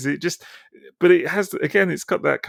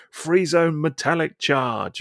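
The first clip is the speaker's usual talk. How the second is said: mock battle cry; 5 semitones higher, slower than usual. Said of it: "stuff they're kinda shouting as they're in battle".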